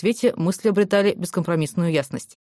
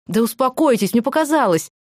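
pleading; 5 semitones higher than usual. A narrator's reading. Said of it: "взмолилась Аня".

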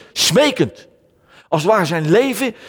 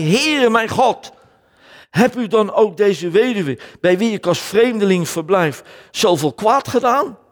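slow, raised pleading call to God; pleading prayer; 4 semitones higher than usual. Acted. Elijah pleading with God for the widow's son, slow raised prayer. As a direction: beg God like Elijah over the dead boy, lightly voiced.

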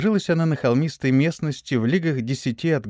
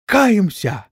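higher, drawn-out collective cry; thunderous chorus reply; 7 semitones higher, 3 dB louder than usual. A narrator's reading. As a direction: repeat it resoundingly after the leader. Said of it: "громогласно за ним повторили". (громогласный возглас)

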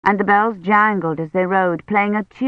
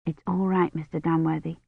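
softer, barely spoken reassurance; said silently; 7 dB quieter than usual. A narrator's reading. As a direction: soothe him inwardly, almost soundless. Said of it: "she had said silently".

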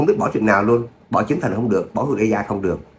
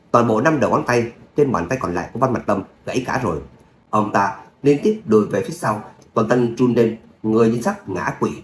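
measured audiobook-style storytelling; story narration. A narrator's reading. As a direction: narrate an action tale with light character voicing. Story narration after own chat.

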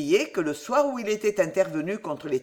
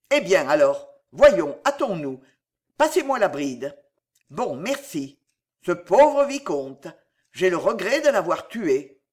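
louder, brusque and hurried; old soldier brushing the innkeeper aside, louder; impatient bluster; 6 dB louder than usual. Acted. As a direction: hustle him along, no patience left.

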